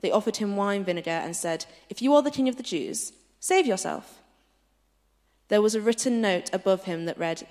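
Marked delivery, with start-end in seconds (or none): 1.9-4.2 higher, jeering soldier's taunt; mocking taunt. A narrator's reading. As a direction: taunt him from below the cross. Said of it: "The soldiers also came up and mocked him".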